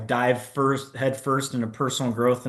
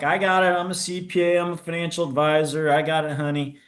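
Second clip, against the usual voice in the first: cocky reassurance; 5 semitones higher, faster than usual. Retold or imitated. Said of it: "And I'm like".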